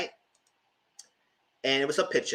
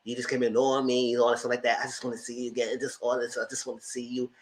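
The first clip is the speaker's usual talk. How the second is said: sexy talk; 5 dB quieter, faster than usual. Retold or imitated. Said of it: "she trying to have that sexy talk".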